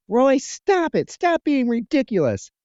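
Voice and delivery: high-pitched mock scream; retold scream. Woman screaming at Roy to stop, mock scream. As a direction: raise the voice high, imitating a screamed order. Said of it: "she's screaming at him".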